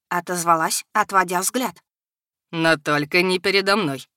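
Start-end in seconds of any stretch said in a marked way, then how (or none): 2.5-4.1 predatory smile. A narrator's reading. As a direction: smile like a hunter. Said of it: "хищно улыбнулся он". (хищная улыбка в голосе)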